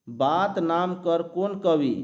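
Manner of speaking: reading the question aloud slowly; teacher slowly reads out the quiz question. Shown as a demonstration. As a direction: read the exam question slowly, word by word. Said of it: "देखिए यहाँ बात नाम कर कौन कवि".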